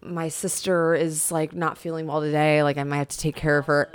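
lightly voiced phony excuse; fake excuse voice. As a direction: stall like a bad liar on the phone. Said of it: "done the old".

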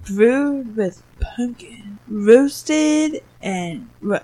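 sultry ad read. Acted. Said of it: "I wish she sounded like that".

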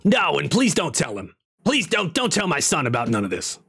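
comic wizard voice, pleading; rough comedian impression with swooping pitch; Gilbert Gottfried. Wizard begging them not to tell his son, imitating Gottfried. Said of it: "sounds like Gilbert Godfrey".

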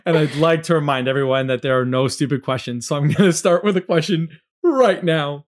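polished, upbeat host voice; customer service voice. Acted. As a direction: sound like a friendly support rep. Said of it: "I'm using my customer service voice".

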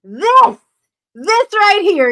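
high, loud showcase call; excited intro. Real, not acted. Host hyping her keynote speaker, excited. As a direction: present him like a prize.

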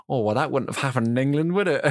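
a rough imitation of an Essex accent; lightly put-on Essex accent. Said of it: "That's the most terrible Essex, uh, Essex accent I've ever done".

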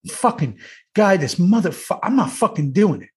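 lightly voiced cursing colleague; Dayton. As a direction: imitate a stubborn, swearing refusal. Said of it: "You know the way he talks".

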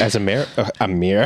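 mock Australian accent on "mayor", said like "mɪɹ"; a lightly put-on Australian voice; jokey Aussie "mayor". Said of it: "I'm doing my Australian accent".

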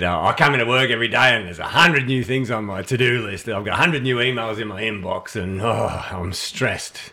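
a hint of Barnaby Joyce complaining; a lightly voiced stressed boss moaning; Barnaby Joyce impression. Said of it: "This guy sounds like Barnaby Joyce".

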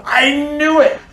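high, excited blurt of recognition. Retold or imitated. Volunteer blurting his recognition of the voice actor, high and excited. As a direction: burst out like you just figured it out.

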